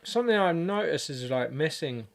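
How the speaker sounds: talking with a mouth full of food; words through a mouthful. Real, not acted. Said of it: "sorry to talk with my mouth full".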